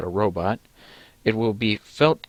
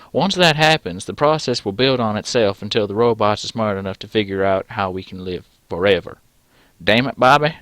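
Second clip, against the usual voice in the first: loud southern professor; hammed-up Southern US accent; 3 dB louder than usual. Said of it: "I don't know why he suddenly got southern".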